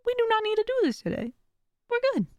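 calm yourself down like a friend; reassuring self-talk. Shown as a demonstration. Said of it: "I'll be like".

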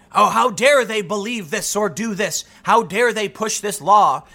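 slow, indignant put-on scolding; theatrical contempt, stretched out; mock outrage. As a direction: imitate someone scandalized, dragging out the words. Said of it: "outrage, contempt".

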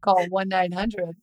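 slow, low hotline pitch; a hint of sexy hotline; sultry hotline voice. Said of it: "if you think this is sexy".

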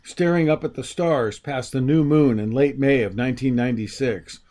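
steady, measured reading voice; story narration. A narrator's reading. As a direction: read it like a storyteller. Reads excerpt from his book.

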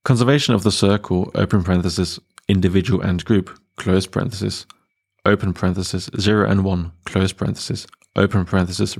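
reading out every bracket and full stop; dictating. Retold or imitated. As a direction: read it word by word like dictation. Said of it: "I'll just read the last page".

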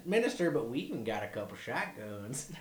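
proud hick sales pitch; Canadian yokel. Retold or imitated.

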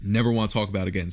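hiccuping while speaking; words broken by hiccups. Real, not acted. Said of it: "I have the hiccups".

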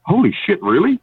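high, thrilled disbelief; ecstatic. Retold or imitated. Boss getting the cash back, high and ecstatic. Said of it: "he was, like, ecstatic".

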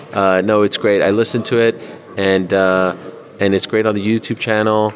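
ordinary talk, nothing marked

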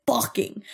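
"fucking" said alone with emphasis; deliberate, emphatic "fucking"; stress on fucking. Shown as a demonstration. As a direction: punch out "fucking" as a single word. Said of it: "I'm emphasizing that he said".

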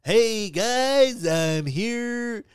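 bright, lifted radio host voice. Pretend. Hosting the podcast like a radio DJ, radio voice. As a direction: greet listeners like a DJ. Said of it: "I gotta do a radio voice".

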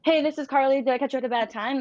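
demoing the nervous way a sales rep opens a call; nervous cold-call opener. Shown as a demonstration. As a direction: show how a jittery rep sounds dialing in. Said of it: "they can sense your nerves".

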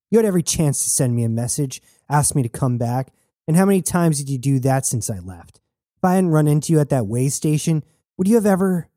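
heated, pitch climbing to the cut-off; growled, holding back tears. Acted. Jazz confronts Knox about never asking her back, growled through held-back tears. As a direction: press on, a touch upset, then stop short. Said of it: "Jazz stopped herself and growled, trying to keep her tears at bay".

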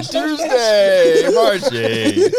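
announcer voice. Acted. Announcer for game.

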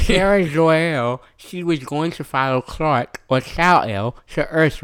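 slow nerdy lecturing voice; nerd voice. Acted. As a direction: lecture slowly like a know-it-all nerd. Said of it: "It's really creepy".

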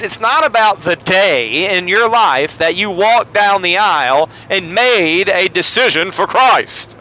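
lightly put-on evangelist delivery; Billy Graham. Host explains getting saved, mock revival preacher. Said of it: "that's my Billy Graham".

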